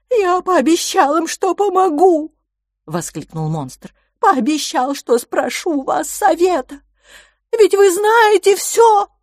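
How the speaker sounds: high, slow giant monster voice, full of alarm; a huge creature fretting for the children; big childlike monster in a panic; anxious giant. Acted. Giant exclaims, pleading.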